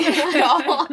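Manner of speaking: a touch of laughter; half-laughing admission. Real, not acted. Telling a friend about a rotten day, light laugh.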